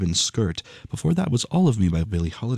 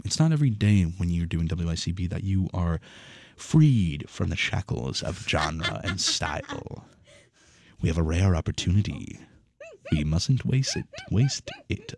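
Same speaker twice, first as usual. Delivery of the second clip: villain monologue. Acted. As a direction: declare it like a scheming villain. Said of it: "Thank you for the villain monologue".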